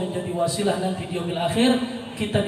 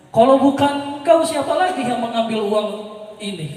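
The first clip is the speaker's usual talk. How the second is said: accusing demand; 3 semitones higher than usual. Retold or imitated.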